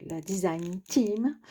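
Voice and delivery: put-on la design team said lightly in an English accent, slowed; a quick playful hint of an English accent on la design team. Vlogger jokes about her English accent, a light English accent. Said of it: "avec mon accent anglais".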